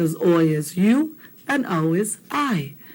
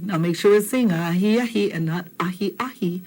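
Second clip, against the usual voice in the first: whispered reminder to the class. Real, not acted. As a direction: whisper the tip on "ahi ahi". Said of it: "unvoiced whisper".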